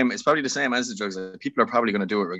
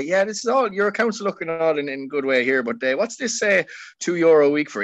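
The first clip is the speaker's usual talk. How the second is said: higher-pitched mock bank official; lightly voiced banker; 5 semitones higher than usual. Banker going through a mortgage applicant's account, lightly mocked officialdom. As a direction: play at querying a customer's account. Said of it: "going in trying to get a mortgage and say".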